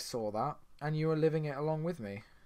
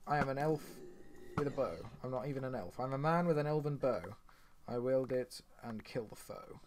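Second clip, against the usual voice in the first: improvised limerick; 5 dB quieter than usual. Pretend. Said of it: "I can't do limericks on the spot".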